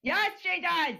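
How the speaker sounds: lightly put-on high voice; a touch of high, insistent character voice; Liler voice. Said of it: "the Liler voice".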